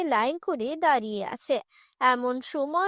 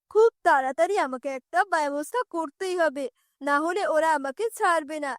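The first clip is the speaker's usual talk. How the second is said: lightly voiced sorcerer fretting to himself; worried tantrik. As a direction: think aloud under a threat, slightly lowered pitch.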